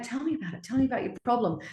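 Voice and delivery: high, coaxing tiger voice; eager tiger chasing down her dragon partner; pestering tiger. Retold or imitated. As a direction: wheedle the problem out of him. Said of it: "the tiger's like".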